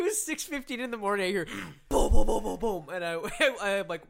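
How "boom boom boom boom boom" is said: loud, booming thuds; imitated crashing. Roommate tumbling downstairs at dawn, loud imitated crashes. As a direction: boom out each bump down the stairs.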